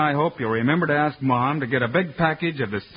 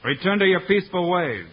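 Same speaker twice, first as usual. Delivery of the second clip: formal proclamation. Acted. Hero addresses the tribe.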